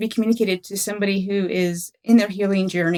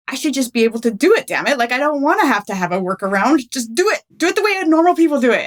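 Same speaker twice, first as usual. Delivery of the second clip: frustrated outburst; 4 semitones higher than usual. Retold or imitated. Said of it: "I would always get so mad".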